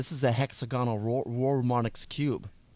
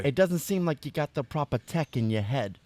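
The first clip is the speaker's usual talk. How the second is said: put-on Brooklyn accent; 2 semitones higher than usual. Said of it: "a gangster Brooklyn accent now".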